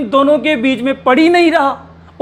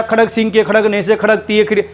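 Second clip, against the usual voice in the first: rattled off quickly, trips at the end; fast tongue twister; faster than usual. Shown as a demonstration. Teacher rattles off a tongue twister quickly for the class. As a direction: rush the twister till the tongue slips. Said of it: "या".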